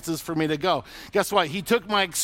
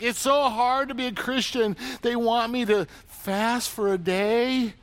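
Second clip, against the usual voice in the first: mock whiny complainer; 4 semitones higher than usual. Mocking whiny Christian.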